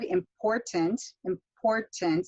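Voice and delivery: "important" with the middle syllable stressed; second-syllable stress. Shown as a demonstration. Teacher introducing the maze word, second-syllable stress on "important". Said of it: "got that stress on that second syllable".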